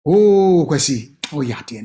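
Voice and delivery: warm mock praise to a son; praising a child. Parent praising son Kwesi, warm.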